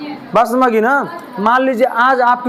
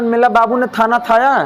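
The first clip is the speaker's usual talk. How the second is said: put-on baby talk. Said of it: "आजकल सब लोग कह रहे हैं".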